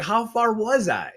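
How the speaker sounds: mock bewildered. Retold confusion on the road.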